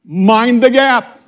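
lightly imitating the London Tube announcer, slow; drawn-out station announcement; a hint of the Tube's recorded voice. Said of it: "that voice that always comes on".

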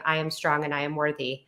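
soft, inward affirmation to herself; quiet affirmation. Retold or imitated. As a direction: say it softly as if only to yourself. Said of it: "by just saying".

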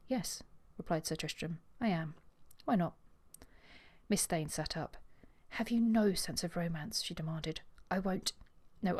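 reading a novel aloud, voicing the lovers lightly; story narration. Podcaster reading the proposal scene to her co-host, story narration. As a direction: read the scene aloud like an audiobook.

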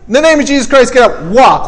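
firm quoted order, dropping in pitch at the end; mild proclamation turning into a plain order; commanding. Acted. Peter telling the paralyzed man to walk, commanding. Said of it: "Talking about the prayer of command".

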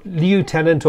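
"lieutenant" opening with a Y-glide, like "lieu"; slow, spelled-out LYOO in "lieutenant"; LYOO-tenant pronunciation. Shown as a demonstration. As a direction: say "lieutenant" as lyoo-TEN-ant, slowly. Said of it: "or as you say".

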